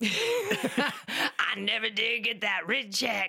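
chain-smoking office lady voice. Asked to act out a phone call, imitating the lady from the office. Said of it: "Please do an impression of the phone call".

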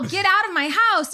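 high-pitched, startled, panicked screaming. Recounting people showing up in her house, reenacting her own screaming. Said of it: "And I'm screaming at them".

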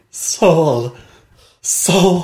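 ghostly, otherworldly, faint, ethereal far-off voice. Retelling a scene where he hears someone calling out, in a faint ethereal voice. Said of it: "a faint voice being like".

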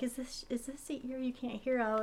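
very quiet, soft half-whisper. Retelling a film scene where a character leans to his bad ear: imitating her half-whispering. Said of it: "she's, like, whispering it".

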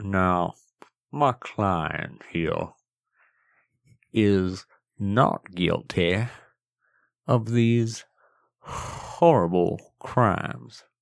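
full put-on Southern courtroom lawyer accent. Acting out a defendant playing his own lawyer in court; put-on southern lawyer accent. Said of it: "full Southern and was like".

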